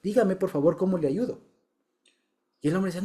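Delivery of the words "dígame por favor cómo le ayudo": polite, earnest offer of help; sincere, courteous request; genuinely interested. Retold or imitated. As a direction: ask as if you truly want to help. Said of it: "genuinamente interesado".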